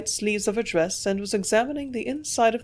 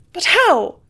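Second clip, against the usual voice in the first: shrill frightened cry, much higher and louder; shrieked; 11 semitones higher, 10 dB louder than usual. A narrator's reading. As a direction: shriek the question in terror. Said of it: "she shrieked".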